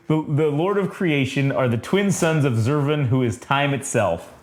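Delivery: measured reading of a solemn text; narration reading. A narrator's reading. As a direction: read it out like a comic-book narrator. Reads the comic's narration aloud.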